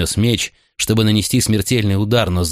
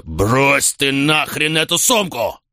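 slow, higher angry order; furious demand; 7 semitones higher, much slower than usual. A narrator's reading. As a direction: force out every word in rage.

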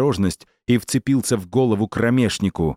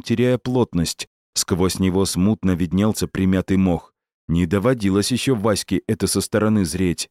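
ordinary delivery

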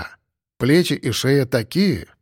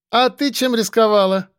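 1 called out; 8 semitones higher than usual. A narrator's reading. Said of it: "крикнули в толпе".

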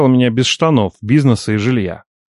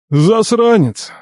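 philosophical sigh; 10 semitones higher, 3 dB louder, much slower than usual. A narrator's reading. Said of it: "философски вздохнул".

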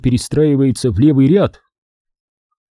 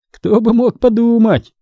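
ironic; 9 semitones higher than usual. A narrator's reading. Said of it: "с иронией заметил Терри".

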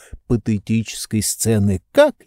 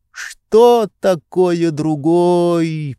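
high, slow, reproachful lecturing; a pampered master scolding his servant; higher lordly voice, drawn out in reproach; indignant master; 6 semitones higher, much slower than usual. A narrator's reading. Oblomov presses on.

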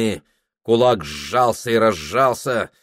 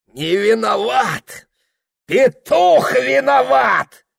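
much higher, louder, slow bellowing shout; hoarse furious shout; 7 dB louder, slower than usual. A narrator's reading. Father shouting hoarsely at Prokhor, furious. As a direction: roar it back at the son. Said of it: "прохрипел Пётр Данилыч".

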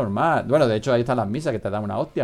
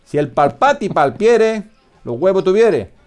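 much higher, slow, pompous mock-archaic chant; mock solemn recitation; 8 semitones higher, 9 dB louder, slower than usual. Host mocks the absolute monarch in mock-archaic verse, high and pompous. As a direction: declaim it like a grand old decree.

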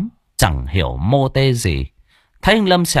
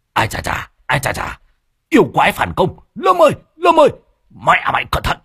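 shouting out; 4 semitones higher, faster than usual. A narrator's reading. Master yelling warnings to Lâm in the pond, shouting. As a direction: holler a warning across the pond. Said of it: "Thầy Môn Phọt thấy vậy thì hô lên".

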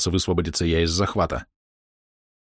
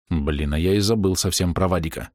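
usual speaking voice

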